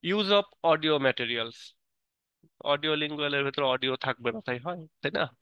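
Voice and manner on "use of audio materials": slow, careful reading aloud word by word; teacher reading the English definition aloud slowly; slow textbook reading. Acted. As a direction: read it like dictation for the class. Reads English heading slowly.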